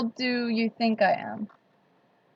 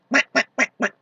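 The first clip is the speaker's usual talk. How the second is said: duck call; 3 semitones higher than usual. Shown as a demonstration. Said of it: "This is my duck call".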